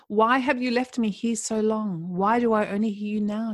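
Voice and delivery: half-hearted acted scream of despair; mild mock scream. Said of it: "she screamed".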